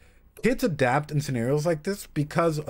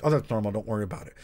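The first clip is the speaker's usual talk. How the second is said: dismissive brush-off; 5 semitones lower, faster than usual. Retold or imitated. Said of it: "No therapist should ever be like".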